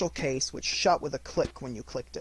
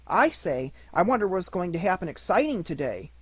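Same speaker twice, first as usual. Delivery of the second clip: small Piglet; 5 semitones higher, 3 dB louder than usual. Acted.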